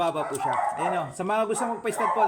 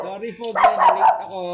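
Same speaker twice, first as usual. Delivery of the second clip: squeaky praising a dog; 7 dB louder than usual. Real, not acted. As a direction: coo at the dog in a high voice. Apologizing to the dog.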